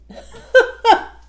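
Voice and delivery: sudden high laughing burst; burst of laughter. Real, not acted. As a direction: laugh out at yourself. Laughs at her own stumble.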